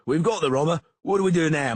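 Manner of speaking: loud, high shout; shouting masons. Acted. Masons shouting to their master about the captive. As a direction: call out loudly to the master.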